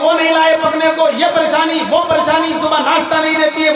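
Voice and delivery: whining complainer. Retold or imitated. Man complaining to Umar.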